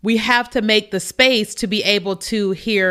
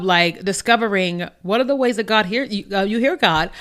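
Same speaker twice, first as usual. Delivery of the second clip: talking through a yawn; words stretched by a yawn. Real, not acted. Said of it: "Sorry, I'm yawning".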